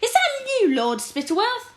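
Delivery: a major shouting back through the fog; distant shout. Acted. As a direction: shout it back across the marsh. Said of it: "Major Beamish shouted back".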